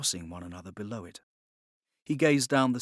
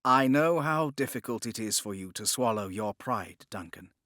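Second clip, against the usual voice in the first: almost kindly. Acted. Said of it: "he said, almost kindly".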